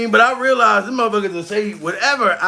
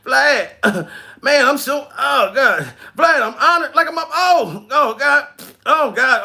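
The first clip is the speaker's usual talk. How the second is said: acted straining, voice pitched up; straining on toilet; 4 semitones higher than usual. Straining while talking to Vlad from the toilet, mock effort. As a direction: grunt through a call while pretending to push. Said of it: "when you doodling and you talking".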